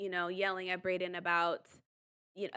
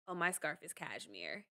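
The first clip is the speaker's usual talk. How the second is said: a hint of a trust-fund rich boy, softer and lower; mock rich boy; 4 semitones lower, 9 dB quieter than usual. Sean correcting the producer about his scarf, softly mock-posh. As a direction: lightly play the smug rich kid. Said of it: "trust fund, rich boy".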